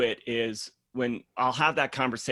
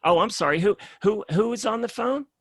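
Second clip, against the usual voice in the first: higher, louder mock-polite challenge; condescending question; 7 semitones higher, 4 dB louder than usual. A client on the call questioning who else is listening, condescending. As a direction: sound sweetly suspicious.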